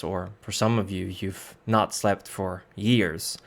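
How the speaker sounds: measured scene setting, slowing on key moments; game master narration. Acted. Game master easing the party into sleep and waking, measured narration. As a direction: narrate it steadily, letting pauses hang.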